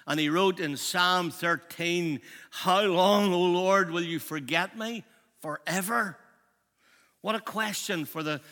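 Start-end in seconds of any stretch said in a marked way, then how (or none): 2.5-6.2 loud, pleading cry to God; anguished cry. Acted. Preacher voicing David crying out to God, loud lament. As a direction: cry out how long to the Lord.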